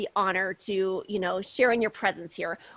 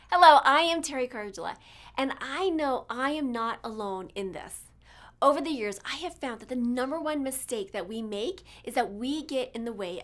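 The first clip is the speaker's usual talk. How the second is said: podcast intro read; 4 dB quieter than usual. Acted. Host opening her show to listeners, earnest promo read. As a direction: announce the show with dramatic weight.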